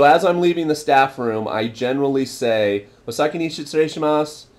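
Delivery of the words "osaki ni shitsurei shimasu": quick, higher call-out; semi-loud voice. Shown as a demonstration. Leaving the staff room, quick semi-loud farewell to colleagues. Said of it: "in a semi-loud voice".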